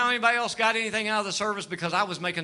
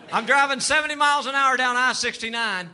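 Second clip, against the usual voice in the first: laughing shout; 5 semitones higher than usual. Real, not acted. Repeat louder with laughter.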